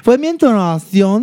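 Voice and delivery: high-pitched, insistent excuse; defensive excuse. Real, not acted. Host blames own intonation after correction, defensive.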